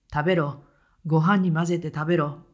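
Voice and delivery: mild retold coldness; cold. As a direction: order her coldly like a sullen son. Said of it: "と冷たく言いました".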